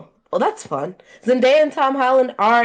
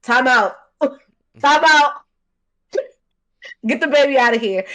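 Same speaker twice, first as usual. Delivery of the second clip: shooing the dog out; 5 semitones higher, 5 dB louder than usual. Retold or imitated. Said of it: "and I was like".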